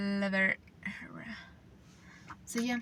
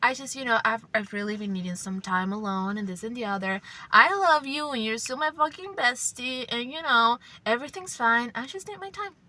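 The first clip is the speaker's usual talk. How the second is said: reassuring. Retold or imitated. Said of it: "she would say it like, like this".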